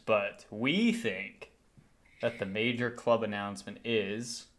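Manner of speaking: mock-solemn pause before the news; suspenseful build-up. Real, not acted. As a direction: hold back the announcement as if awaiting a drum roll. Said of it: "drum roll sound effects in here".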